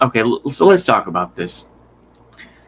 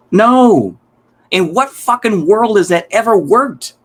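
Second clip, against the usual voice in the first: sharp, higher incredulous no; exasperated outburst; 7 semitones higher, slower than usual. Real, not acted. Streamer scoffing at the return-to-Europe idea, exasperated and raised.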